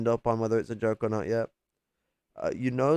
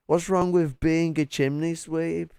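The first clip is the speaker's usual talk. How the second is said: higher, indignant sweep's protest; mock offended chimney sweep; 6 semitones higher than usual. Repeating the chimney sweep line to chat in mock outrage. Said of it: "He sounds like a goddamn chimney sweep".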